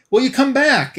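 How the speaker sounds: high, coaxing then bargaining; bargaining pleading head. Acted. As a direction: sweet-talk her into saving you. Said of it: "And the tide comes in".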